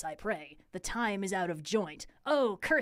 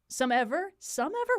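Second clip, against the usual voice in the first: baffled question; 5 semitones higher than usual. Real, not acted. Mocking confusing Shakespeare phrase.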